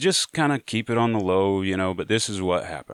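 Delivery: ordinary delivery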